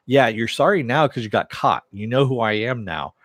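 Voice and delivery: recounted telling-off with some force; retold going off. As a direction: go off on him, half-acted. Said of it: "he basically starts going off".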